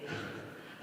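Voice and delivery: a quiet airy chuckle; soft breathy laugh. Retold or imitated. Niece imitating aunt's quiet laugh at the teasing. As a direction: laugh softly under your breath. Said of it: "And she would laugh and say".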